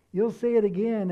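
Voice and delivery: preacher driving the promise home; emphatic repeat. Acted. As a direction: punch it harder the second time.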